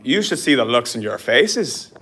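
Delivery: slow attempt at an Irish accent. Shown as a demonstration. Showing Jeffrey how Irish sounds, Irish accent. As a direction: demonstrate an Irish accent with drawn-out words. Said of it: "Could you do an Irish accent".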